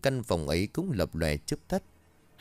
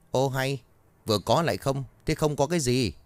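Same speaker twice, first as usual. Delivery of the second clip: irritated cursing, climbing higher; guard losing patience with the stammering boy; exasperated guard; 5 semitones higher than usual. Acted. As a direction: curse him out in frustration.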